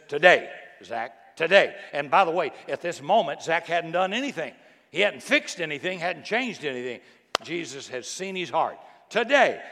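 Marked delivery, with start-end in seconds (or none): 0.1-1.3 slow, loud call with "Today" drawn out and rising; calling out as Jesus. Retold or imitated. Jesus calling Zacchaeus down from the tree, a slow loud call. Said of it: "Jesus looks at him and says". 1.3-1.7 proclaiming as Jesus. Retold or imitated. Jesus declaring to Zacchaeus, a loud falling proclamation. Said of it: "Jesus looks at him and says". 9.1-9.6 proclaiming as Jesus. Retold or imitated. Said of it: "Jesus looks at him and says".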